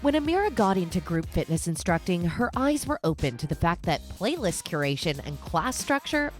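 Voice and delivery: polished, lively host intro over music; podcast intro read. Acted. Host introduces guest and show to listeners, announcer read. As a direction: read it like a show opener with punched key words.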